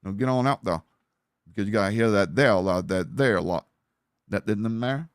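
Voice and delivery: imitation backwoods bayou Cajun; Louisiana bayou accent. Shown as a demonstration. Streamer practising a tough accent, in Louisiana bayou style. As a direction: run the words together like a bayou Cajun. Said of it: "a Louisiana Bayou accent is tough".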